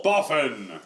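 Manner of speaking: a touch of scolding in the call; yelling into the well. Acted. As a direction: call after the runaway. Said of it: "I yell into the well".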